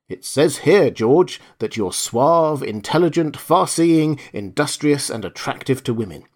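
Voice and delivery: a wife reading the card with mild scorn; lightly voiced sneering wife, drawing out suave; a touch of disdain as she reads her husband's fortune; contemptuous disdain. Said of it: "the tone of contemptuous disdain in the woman's voice".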